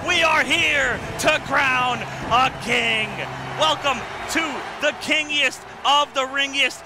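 slow, drawn-out event welcome; ring announcer. Acted. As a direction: announce it grandly, stretching the words.

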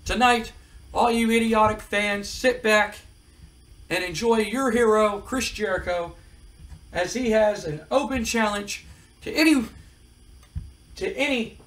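brash wrestling promo voice; cocky heel promo. Retold or imitated. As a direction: sneer it out like a heel calling out the locker room. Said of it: "He goes".

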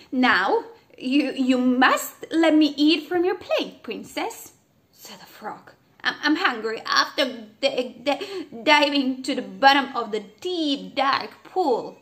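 greedy frog asking for food. A narrator's reading. Frog demands to eat from the princess's plate.

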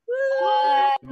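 high drawn-out woo; cheering whoop. Real, not acted. Host leading a big group goodbye, cheering whoop. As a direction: let out a celebratory whoop.

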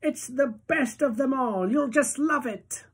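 put-on old grandpa voice. A narrator's reading. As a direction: coax him like a fond grandfather.

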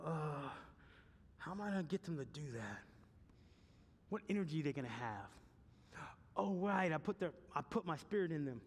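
a lightly voiced, hushed God thinking aloud; mock God musing. Pastor voicing God pondering his plan, lightly hushed. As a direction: muse softly as God working it out.

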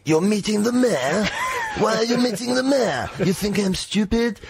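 replaying her freak-out at full pitch; mock furious rant. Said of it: "went mental and said".

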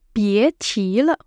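slow, resigned sigh; helpless tone. Shown as a demonstration. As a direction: give up with a shrug. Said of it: "Generally with a helpless tone".

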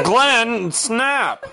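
laughing. Real, not acted. Urging Glenn laughing.

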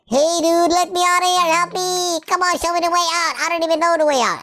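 high, whiny plea; mock pleading. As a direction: beg hurriedly to be let out. Begging to be let out.

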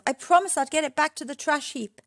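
high, dismayed wail; high-pitched worried lament. A narrator's reading. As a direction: wail it, upset at forgetting. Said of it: "he wailed".

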